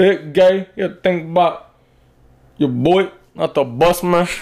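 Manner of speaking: very high dude drawl, word endings dropped. Doing an impression of a man who doesn't finish his words: imitating him. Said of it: "I closed my eyes and I heard him".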